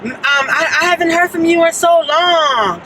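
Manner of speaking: high, drawn-out overfamiliar greeting; stretched-out, high mock greeting from a stranger; imitating an African man. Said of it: "he was an African".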